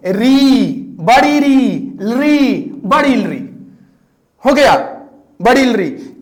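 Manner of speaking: री and बड़ी री said clearly, बड़ी stressed; vowel demo. Shown as a demonstration. Teacher showing the extra vowels री and बड़ी री. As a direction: contrast री with बड़ी री. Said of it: "कौन?".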